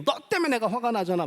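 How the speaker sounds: mild acted outburst of anger; lightly annoyed accusation, acted out; mock angry blame. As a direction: play at blaming someone angrily. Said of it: "막 이렇게 화를 내는 거죠".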